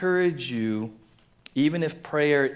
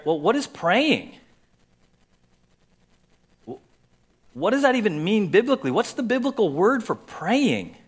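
higher and louder, quick wondering questions; puzzled self-questioning; 7 semitones higher, 3 dB louder than usual. Retold or imitated. Pastor retells puzzling over the word to the church, eager. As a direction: voice his own puzzled study questions. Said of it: "and I start".

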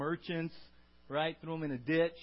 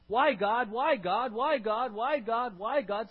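loud, repeated, higher pleading whine; nagging believer; 6 semitones higher, 7 dB louder, slower than usual. Retold or imitated. Believer nagging God for reasons, loud whine. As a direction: pester God over and over.

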